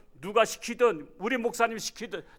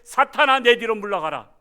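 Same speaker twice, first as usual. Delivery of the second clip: commanding rebuke; 5 semitones higher, 10 dB louder than usual. Acted. Jesus rebuking Satan, quoted loudly.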